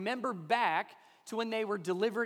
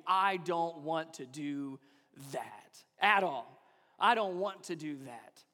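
slow reluctant groan; 4 semitones lower, slower than usual. Retold or imitated.

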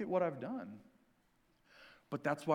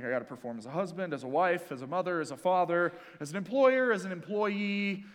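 scatterbrained rush. Retold or imitated. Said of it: "scatterbrained all over the place being like".

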